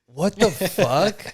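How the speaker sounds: high, drawn-out astonishment; stunned disbelief. Real, not acted. Listener reacting to friend's trash story, stunned. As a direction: stretch it slow with pitch up.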